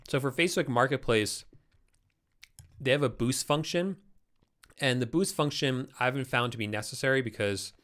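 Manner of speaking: talking around an ice cube; mouth full. Real, not acted. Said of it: "I'm gonna get rid of this ice cube".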